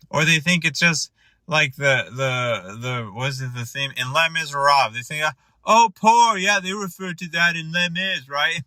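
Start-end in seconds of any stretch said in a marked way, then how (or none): 5.6-8.6 imitated friend, pitched up and airily unaware; clueless rich friend. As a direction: play an oblivious friend piping up knowingly.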